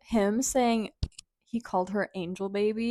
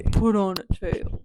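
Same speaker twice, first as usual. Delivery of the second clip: lower, slow playful come-on; low teasing guy voice; 3 semitones lower than usual. Pretend. Mock seductive request from crush.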